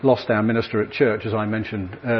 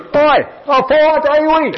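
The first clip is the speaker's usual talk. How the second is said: much higher, slow, booming mock divine voice; God's voice; 7 dB louder than usual. God cheering the four-day week, in a hammed-up booming voice. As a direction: play God delighted, bigger than life. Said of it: "I thought it was God saying".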